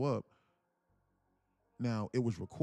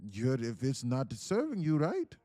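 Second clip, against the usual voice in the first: Indian accent impression. Mentor telling a losing trader to drop his model, light Indian accent. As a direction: lay down the rule like a patient Indian mentor. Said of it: "in his Indian voice".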